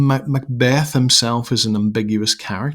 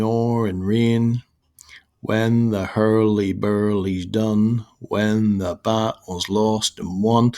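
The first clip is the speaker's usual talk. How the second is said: slow, measured verse with drawn-out beats; deliberate, metrical chant; poetic recitation; slower than usual. Shown as a demonstration. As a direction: recite it slowly, leaning on the trochaic beat. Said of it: "croaky, horrible voice will not kinda do the poetic justice".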